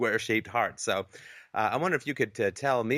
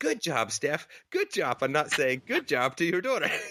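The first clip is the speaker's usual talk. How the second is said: put-on bubbly cheerleader voice, high, swooping, fake enthusiasm; 5 semitones higher than usual. Speaker quoting what she said to herself about her daughter, fake enthusiastic bubbly voice. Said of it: "fake enthusiastic bubble voice".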